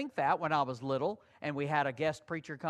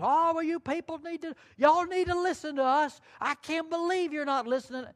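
higher and louder, an exasperated hothead; mock angry ranting; 9 semitones higher, 4 dB louder than usual. Preacher mocking how loose cannons would scold, higher and louder. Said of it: "They weren't loose cannons".

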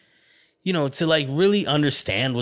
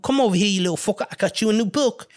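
mother calling; 11 semitones higher than usual. Retold or imitated. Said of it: "my mother would be calling like".

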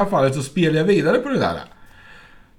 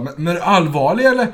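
stunned disbelief; 4 semitones higher than usual. Retold or imitated. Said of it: "hon vart liksom helt ställd".

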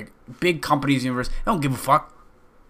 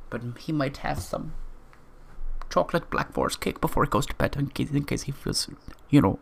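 put-on little German accent; 3 semitones higher than usual. Surfer wanting chocolate cake before bed, German accent. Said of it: "doing that little German accent saying chocolate".

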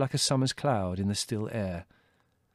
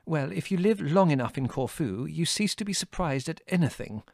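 higher, assured woman's voice; with conviction; 5 semitones higher than usual. A narrator's reading. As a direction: state it as settled experience. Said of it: "said Mother with conviction".

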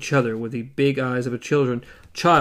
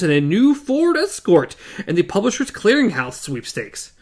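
loud, plummy, hammed-up British accent, higher; bogus British accent; 6 semitones higher, 6 dB louder than usual. Eddie bellowing into the intercom in a bogus British accent. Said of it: "adopting a plummy and completely bogus British accent".

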